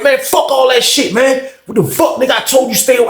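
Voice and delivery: high-pitched, defiant retort; retold angry comeback. Jay brushing off a warning in the pod, angry retort.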